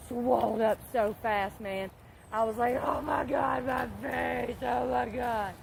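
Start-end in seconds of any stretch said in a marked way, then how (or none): 2.8-5.5 mock wail of dismay; panicked wail. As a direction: cry out over a busted lip, hammed up. Retold panic over swollen lip.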